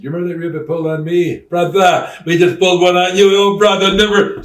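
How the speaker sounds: high, very loud wrestler-style taunt; hollered payback, retold. Wrestler reenacting the reveal of his counter-prank, hollered taunt. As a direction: holler it high, leaning on each "brother".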